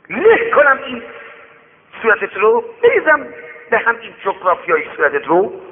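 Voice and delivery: high loud threatening yell; angry threat. Acted. Rich man pinning the beggar down, angry threat.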